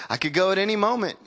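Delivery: a hint of old grandpa, fast and casual; imitating grandpa. Preacher mimics his grandpa's casual talk, lightly voiced. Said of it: "this is how he talks".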